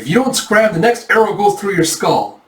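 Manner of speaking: high, loud, forceful warning; threatening. Acted. Yona aiming arrow at bandits, high fierce threat. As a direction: warn them off hard.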